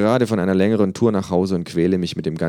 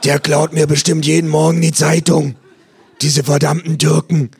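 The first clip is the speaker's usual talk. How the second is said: nosy neighbour; 10 semitones higher, 10 dB louder than usual. Acted. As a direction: squawk like a gossiping neighbour. Neighbour voiced in story.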